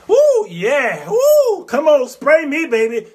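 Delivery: laughing high woo, come on spray me; mocking playful squeal with a laugh; taunting roaches. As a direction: tease the spray like it tickles. Roaches enjoying the Raid.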